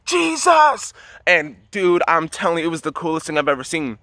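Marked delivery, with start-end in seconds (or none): 0.0-0.9 high, drawn-out cry for help; high-pitched calling out, held back in volume; shout. Retold or imitated. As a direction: re-enact a desperate shout to the sky. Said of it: "and I shout".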